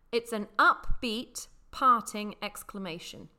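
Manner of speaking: slow, measured dictionary reading; deliberate definition, spaced-out words. Shown as a demonstration. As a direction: spell it out slowly, word by word.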